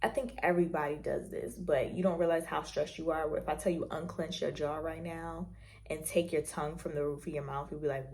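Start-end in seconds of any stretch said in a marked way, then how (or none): 3.4-7.7 hushed, breathy whisper to the listener; whispered guidance. Shown as a demonstration. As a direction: whisper it like easing someone's tension. Guiding listeners to unclench jaw.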